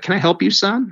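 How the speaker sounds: lightly put-on, high-pitched old lady voice; little old lady. Old church volunteer asking a stranger, high little-old-lady voice. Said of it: "little old eighty-year-old volunteer".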